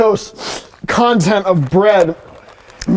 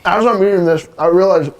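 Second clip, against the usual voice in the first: talking while chewing; mouth full; faster than usual. Real, not acted. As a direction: speak around a mouthful of food. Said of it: "talking with my mouth full".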